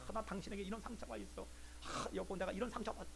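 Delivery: soft, sighing admission; hushed confiding. Pretend. Spouse confides a hidden hurt to partner, hushed admission. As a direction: confess a hurt quietly, acted.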